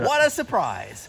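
slow, sarcastic what a surprise; deadpan mock amazement; fake surprise.

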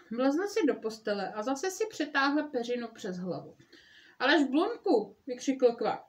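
lively read-aloud storytelling voice; story narration. A narrator's reading. Mother reading Frog and Toad aloud to listeners, storytelling voice. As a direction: read it like a bedtime story for kids.

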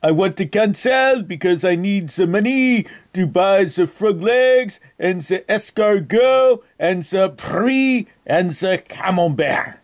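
hammed-up French accent on a prank call; outrageous fake French accent. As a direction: play a Frenchman with a thick, put-on French accent. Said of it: "That is why I have this outrageous accent".

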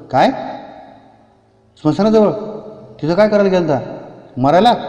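a villager shocked at where he was found; astonished villager. Acted. (गावकऱ्याचा आश्चर्यचकित, मोठा उद्गार)

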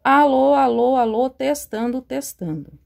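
mic right at the mouth; too close to mic. Real, not acted. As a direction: speak with lips on the mic. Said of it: "vou botar o microfone na boca".

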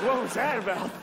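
high baffled question. Retold or imitated. Confused retelling.

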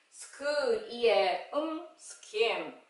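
"스크, 이에, 음" apart, then "스킴" slowly joined; phonics blending. Shown as a demonstration. Teacher reading SK words, segmented then blended. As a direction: hum the final m of "스킴". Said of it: "에스케이 글자로".

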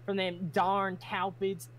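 slow, lightly drawled Southern farm voice; a hint of a Southern farmer, slowed down. Crimson the farmer grumbling about pests, lightly Southern. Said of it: "I can't read in Southern right now".

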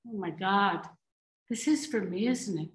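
low, soft, dawning admission; subdued, vulnerable murmur; hushed realization. Acted. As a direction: let it sink in quietly. Realizes the plan is for herself.

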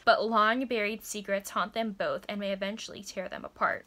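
measured third-person story narration; steady romance synopsis reading; book blurb read-aloud. A narrator's reading. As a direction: read it out like a back-cover blurb.

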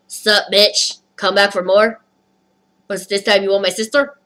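lightly put-on Spanish accent. Cockroach taunting the storyteller, light Spanish accent. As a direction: voice a cocky bug with a hint of Spanish. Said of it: "was Spanish all of a sudden with that accent".

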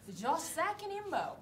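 very slow fake English phrase; slow mock English. Shown as a demonstration. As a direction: drag it out like English. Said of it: "英語っぽく".

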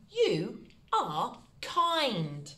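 slow, clear sentence for writing down; each word spaced for spelling; slow dictation. Shown as a demonstration. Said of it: "First one".

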